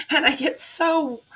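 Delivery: laughing through tears, restarting; a small laugh as emotion breaks through; teary laugh. Real, not acted. Vlogger to viewers, laughing off tears. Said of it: "there it goes again".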